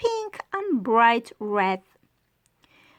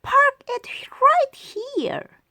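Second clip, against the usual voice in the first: excited shout; 14 semitones higher than usual. Acted. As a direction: call out eagerly like a small monkey. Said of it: "one little monkey shout".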